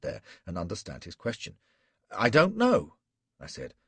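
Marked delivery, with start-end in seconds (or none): 2.1-3.0 high, loud frightened plea; desperate denial. Acted. Flashman denying to Gul, high and loud with fear. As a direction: insist through panic.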